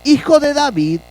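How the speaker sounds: mild, high-pitched call to someone. Retold or imitated. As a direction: call out as a beggar would, held back. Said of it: "comenzó a dar voces y a decir".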